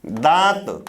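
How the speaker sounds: दांत as dãat, nasal aa and no n; दांत, nasalized vowel straight into t. Shown as a demonstration. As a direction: say दांत with the long vowel through nose and mouth. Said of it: "बहुत सारे शब्द हैं चंद्रबिंदु वाले".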